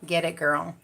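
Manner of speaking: usual speaking voice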